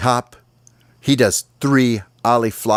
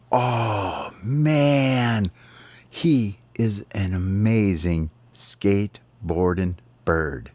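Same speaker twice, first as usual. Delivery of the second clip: awed sparrows; 4 dB quieter, much slower than usual. Acted. Sparrows stunned by the trick.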